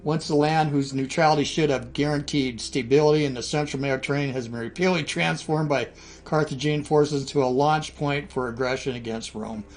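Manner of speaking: roman orator. Acted. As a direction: declaim it like a Senate decree. Reading Rome's war declaration aloud.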